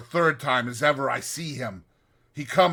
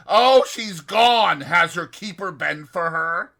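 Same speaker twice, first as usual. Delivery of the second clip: relieved; 5 semitones higher, 7 dB louder than usual. Retold or imitated. Fevered man relieved the ghost left.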